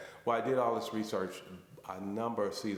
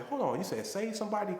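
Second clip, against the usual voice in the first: startled question; 11 semitones higher than usual. Retold or imitated. Caller stunned on the phone.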